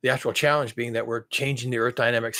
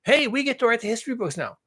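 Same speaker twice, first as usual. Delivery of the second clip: smug imitation; 3 semitones higher than usual. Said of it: "then you're gonna say".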